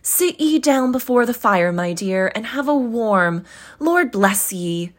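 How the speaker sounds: fussing mother. Acted. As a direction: coax her to the fire. Mother fussing over daughter.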